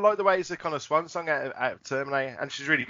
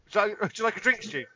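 higher, teasing set-up question; lightly acted interviewer feeding a gag; mock questioner; 6 semitones higher than usual.

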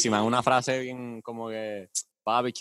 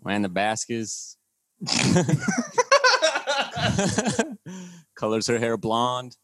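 American accent; 3 dB quieter, much slower than usual. Shown as a demonstration. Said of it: "se me está haciendo bien difícil hablar inglés".

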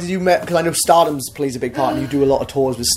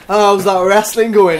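slow, higher mocking relative; 6 semitones higher, 6 dB louder, slower than usual. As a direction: drawl it like a nosy aunt. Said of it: "they were all like".

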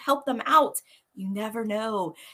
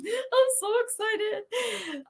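giddy anticipation; 11 semitones higher, much slower than usual. Real, not acted. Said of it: "I'm so giddy right now".

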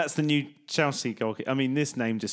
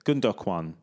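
Gundogan as goon-DOK-wan, lower, odd accent; put-on weird accent; 6 semitones lower than usual. Shown as a demonstration. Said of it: "I'm putting this weird accent on".

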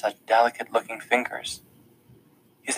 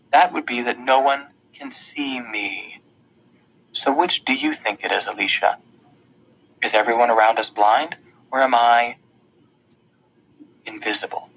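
secretive half-whisper. Acted. Revealing his secret.

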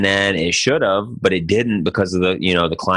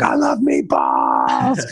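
lower, slow, savoring murmur of "I love meatballs"; hunched over the plate; 7 semitones lower, much slower than usual. Retold or imitated. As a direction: relish each word while leaning over the food. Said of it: "legit down over the plate".

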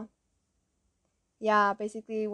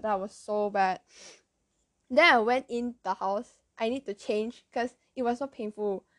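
ordinary delivery

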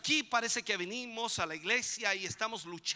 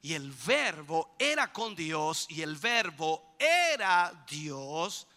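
solemn scripture reading; 4 semitones lower, slower than usual. Pretend. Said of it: "cuando dice".

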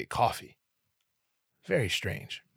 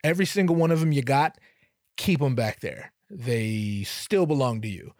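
flustered polite refusal; 3 semitones higher, 3 dB louder than usual. Retold or imitated. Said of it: "I'm like".

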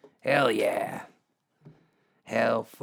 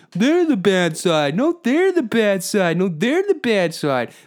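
much higher and louder, bickering yells; mocking shout; 9 semitones higher, 7 dB louder than usual. Mocking protesters blaming each other online, loud high mock shouting. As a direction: yell it back and forth like squabbling kids. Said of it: "and then people can be like".

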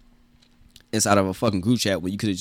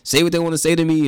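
angry rant; 6 semitones higher than usual. Retold or imitated. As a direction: blow up at him, pitch way up. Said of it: "And I'm like".

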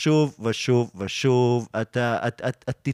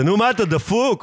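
tag imitated irritation; 8 semitones higher than usual. Quotes the hipster snapping at them.

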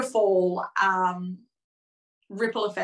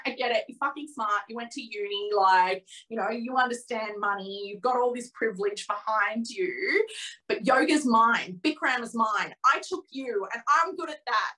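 a touch of a jealous tantrum, half-mock; retold tantrum. Telling her client about her jealousy, a mild mock tantrum. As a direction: replay the rant lightly, mostly in her own voice. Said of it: "I had a proper tantrum".

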